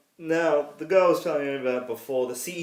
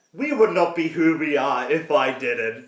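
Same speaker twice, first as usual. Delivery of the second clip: laughing; 5 dB louder, slower than usual. Real, not acted. Laughing at shared joke.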